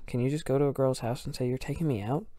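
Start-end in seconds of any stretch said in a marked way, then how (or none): 1.5-2.3 incredulous echo. Retold or imitated. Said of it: "Is that how that works?".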